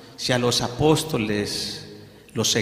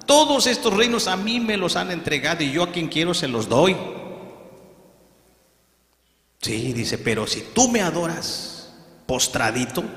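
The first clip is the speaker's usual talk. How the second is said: Satan's final offer; 4 semitones higher than usual. Acted. The devil offers Jesus all kingdoms, higher sly tempting voice. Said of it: "empezó a darle la última oferta".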